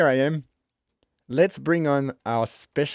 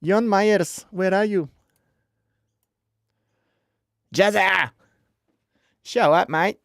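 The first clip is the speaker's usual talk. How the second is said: calling out; 6 semitones higher, 5 dB louder than usual. Real, not acted. Calling for a late guest.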